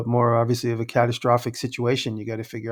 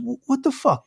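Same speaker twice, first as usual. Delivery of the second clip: mock Long Island douche; 11 semitones higher than usual. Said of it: "he goes".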